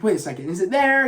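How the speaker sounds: mildly puzzled imitation of a lost guide; confused. Kano lost with the tracking device, retold confused. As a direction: lightly act out searching confusion. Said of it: "He's so confused".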